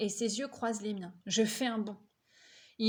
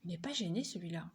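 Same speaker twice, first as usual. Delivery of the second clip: softer, lower, quick aside; hushed aside; 4 semitones lower, 5 dB quieter, faster than usual. Acted. Boy muttering a remark to his brother, hushed and quick. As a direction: murmur it so the boy won't hear. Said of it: "Je souffle à mon frère".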